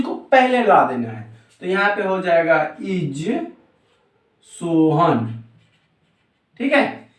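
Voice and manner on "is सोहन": drawn-out words with a gap; slow dictation. Shown as a demonstration. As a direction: dictate slowly, word by word. Teacher dictates slowly while writing. (धीरे-धीरे लिखवाते हुए)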